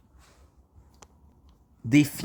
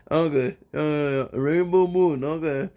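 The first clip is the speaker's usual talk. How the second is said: mock hippie; 3 semitones higher than usual. Mock dreamy hippie name.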